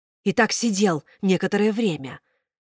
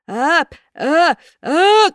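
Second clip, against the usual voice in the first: rising loud wail building to a sneeze; howling pre-sneeze wail; 10 semitones higher, 7 dB louder, much slower than usual. A narrator's reading. Karabas howls as the coal tickles his nose. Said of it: "завыл Карабас-Барабас".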